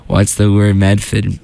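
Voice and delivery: put-on slow Boston-accent catchphrase; a light Medford twang. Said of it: "I love doing the Boston accent".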